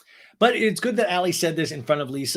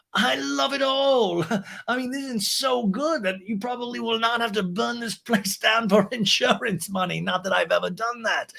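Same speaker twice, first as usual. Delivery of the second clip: Lisa impression; 8 semitones higher than usual. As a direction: savor each word like a grande dame. Lisa joking about sandwich shop.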